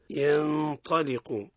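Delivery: ينطلق slowly, ن hidden before ط with ghunna; ikhfa example. Shown as a demonstration. Teacher showing the taa example, slow and nasal. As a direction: hold the hidden nun of ينطلق. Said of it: "مثال للطاء".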